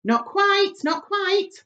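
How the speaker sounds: high, lilting teasing correction; amused correction. Acted. Ladybird correcting the excited creatures, lightly teasing. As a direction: gently tease them back.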